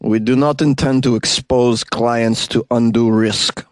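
bad put-on Russian accent. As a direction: read it in a butchered Russian accent. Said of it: "allows me to do a Russian accent".

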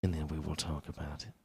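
put-on slow, soft, low British accent; mock British accent. Podcaster orders Josh to perform, slow soft British accent. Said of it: "display your British accent".

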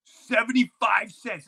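high, loud and drawn out; announcing chips. Retold or imitated. Kid warning Jeffrey the ball costs money, high and slow. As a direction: spell out the price slowly to Jeffrey. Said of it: "I'm like".

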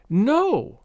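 high, drawn-out emphatic refusal; explosive. A narrator's reading. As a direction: burst out with the denial. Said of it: "she asserted explosively".

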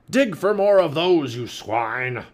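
loud, high pirate bellow; pirate captain's order. A narrator's reading. Pirate captain ordering his men to dig, barking loudly. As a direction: order the crew about with force.

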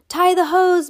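high, loud command; old man yelling an order; yelled. A narrator's reading. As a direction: yell the order. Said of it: "Mister Nakobe yelled".

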